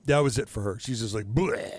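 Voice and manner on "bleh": imitated retch. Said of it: "got nauseous and vomited".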